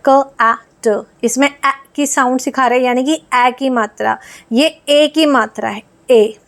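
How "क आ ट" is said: क, आ, ट spelled out sound by sound, each one separate; teacher sounds out क, आ, ट slowly for kids; sounding out cat. Shown as a demonstration. Teacher sounding out a word for children, letter by letter. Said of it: "कैट है तो इसका ए vowel आ गया".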